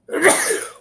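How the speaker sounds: sneezing. Real, not acted. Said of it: "Sorry, I gotta sneeze again".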